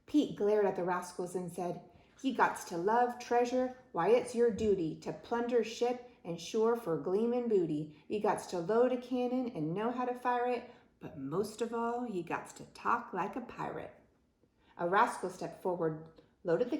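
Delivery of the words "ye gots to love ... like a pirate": raised, rhythmic pirate voice; pirate captain declaring. Acted. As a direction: lay down the rules like a pirate captain. Pirate captain lists his demands.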